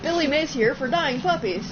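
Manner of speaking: loud, high TV pitchman; Billy Mays pitch. Retold or imitated. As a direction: shout it like an infomercial host.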